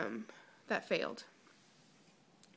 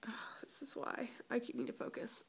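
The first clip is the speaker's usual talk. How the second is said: whisper; 11 dB quieter than usual. Real, not acted. Scolding herself for losing focus, a soft whisper. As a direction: whisper a reminder to yourself. Distracted by the bug again.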